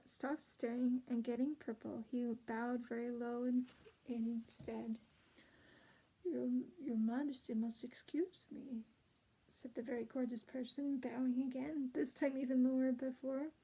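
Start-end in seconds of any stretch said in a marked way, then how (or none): 6.2-8.8 breathy courtly whisper. Acted. Courtier apologizes, caught off guard.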